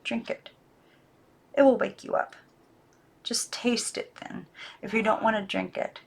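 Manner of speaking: soft, partly whispered coaxing; whispering. Acted. Girl whispers to the doll, pleading. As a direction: coax her in a whisper. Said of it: "she whispered".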